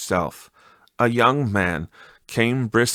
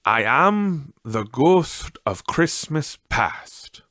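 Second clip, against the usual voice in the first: slow, higher otherworldly spirit; ghostly spirit voice; 4 semitones higher, slower than usual. Acted. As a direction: speak slowly like a gentle ghost.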